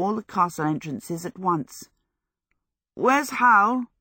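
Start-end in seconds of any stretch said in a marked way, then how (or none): 2.9-3.9 high, worried question; anxious. Acted. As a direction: ask it with real worry. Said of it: "he asked anxiously".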